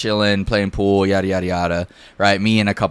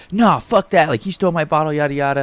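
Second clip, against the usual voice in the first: higher-pitched retold protest; mock indignant refusal; 5 semitones higher, faster than usual. Bottle owner arguing with the roommate, indignant. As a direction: imitate an aggrieved, insistent objection. Intruder refuses the calm request.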